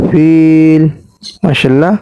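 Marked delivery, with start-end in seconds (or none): 0.1-0.8 ফিল ending on a closed l with no vowel after; pausal stop form. Shown as a demonstration. Teacher showing how to pause on the word, ফিল closed on the l. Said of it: "অফ করলে".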